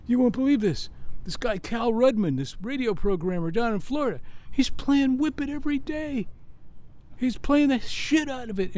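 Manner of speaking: high, astonished news from the road; excited retelling. Retold or imitated. A colleague breaks radio-play news to the band, excited. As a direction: imitate someone breaking unbelievable news.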